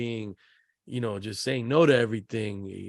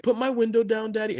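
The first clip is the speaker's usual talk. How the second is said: imitating demanding son; 8 semitones higher than usual. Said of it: "He's like".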